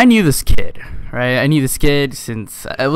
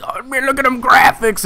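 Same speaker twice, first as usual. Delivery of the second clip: much higher, giddy mock gush; mock gushing kid; 12 semitones higher than usual. Imitating the kid raving about graphics, high giddy gush. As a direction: squeal it like an overexcited nerd.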